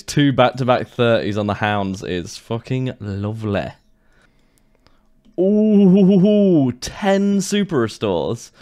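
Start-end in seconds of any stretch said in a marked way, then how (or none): 5.4-8.5 high, loud thrilled ooh; excited ooh. Real, not acted. Player spots ten super restores, thrilled ooh. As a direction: gasp of delight at the loot. Reacting to a rare loot drop.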